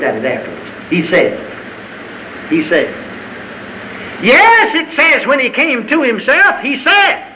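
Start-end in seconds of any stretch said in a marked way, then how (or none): 4.2-7.2 high, emphatic preaching; excited pulpit proclamation; fervent outburst. Real, not acted. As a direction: burst out high after holding back. Preacher bursts out after repeated "he said.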